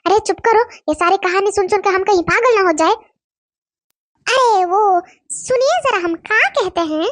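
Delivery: nosy village wife fretting about her husband's phone, in dialect; gossiping village wife. Acted. Village wives trading suspicions about their husbands, gossipy and worried. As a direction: gossip like a suspicious small-town housewife.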